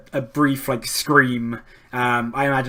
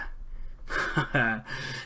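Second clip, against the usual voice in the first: low, soft chuckle; voiceless villain's chuckle; pirate captain's laugh; 3 semitones lower, 11 dB quieter than usual. Acted. Pirate captain laughs at the challenger, low soft chuckle. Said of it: "he starts laughing".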